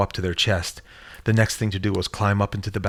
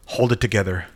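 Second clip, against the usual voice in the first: firing back; 3 dB louder than usual. Acted. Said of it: "Diane fired back".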